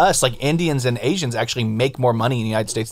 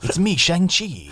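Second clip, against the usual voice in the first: higher, slow mock Asian accent; 5 semitones higher, much slower than usual. Shown as a demonstration. Playing superhero Shang-Chi, mock Asian accent. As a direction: announce it slowly in a put-on Asian accent. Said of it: "some type of Asian accent".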